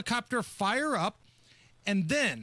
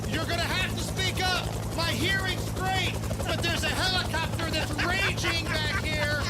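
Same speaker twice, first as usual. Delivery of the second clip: imitating Trump; 9 semitones higher than usual. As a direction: bark it like a president over rotor noise. Playing Trump over helicopter.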